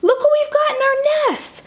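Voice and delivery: high proud voice; beaming about the eggs; proud Jack shows off the eggs. Acted. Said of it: "said Jack so proudly".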